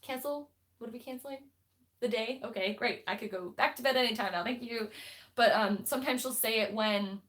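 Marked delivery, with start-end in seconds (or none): 0.0-4.9 mock confused sass. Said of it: "and it's like".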